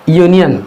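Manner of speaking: यूनियन beginning with a "y" glide; initial y sound. Shown as a demonstration. Teacher shows why union takes "a", initial y sound. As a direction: say यूनियन as "yoo-niyan". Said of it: "य से होता है".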